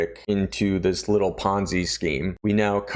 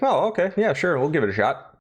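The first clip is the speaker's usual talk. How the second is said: high eager ringleader; 7 semitones higher than usual. Retold or imitated. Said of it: "He's like".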